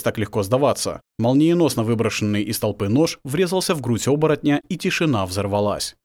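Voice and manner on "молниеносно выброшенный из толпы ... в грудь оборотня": ordinary delivery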